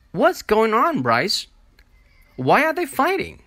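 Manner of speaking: high, loud, panicked questions; alarmed questions. Acted. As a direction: ask in rising alarm at the fight. Julie alarmed by fight.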